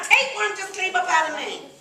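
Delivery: high, loud panicked blurt; frantic retold outburst. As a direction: blurt it out in alarm. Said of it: "I'm like".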